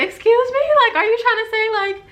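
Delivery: very high, loud incredulous squeal; retold indignation, pitch shot way up; outraged disbelief. Girlfriend challenging his excuse, incredulous.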